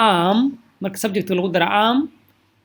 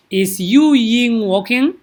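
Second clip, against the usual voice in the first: slow model question; 3 semitones higher, 5 dB louder, much slower than usual. Shown as a demonstration. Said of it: "teacher models a question".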